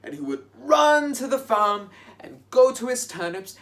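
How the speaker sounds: high, bright wake-up call; excited. Acted. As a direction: sing it out eagerly. Waking up energetically.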